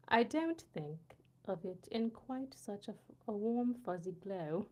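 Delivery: careful put-on British accent. Reading a viewer's line on request, careful British accent. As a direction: read it out in a tentative mock British. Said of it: "say this in a British accent".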